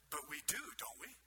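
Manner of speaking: quiet, tentative question rising at the end; mildly doubtful, as if asking yourself; unsure self-questioning. Retold or imitated. Pastor wondering privately whether his church believes it, tentative. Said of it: "I thought to myself".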